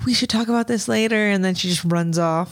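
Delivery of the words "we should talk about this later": put-on girl brushing him off. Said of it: "the girl's like".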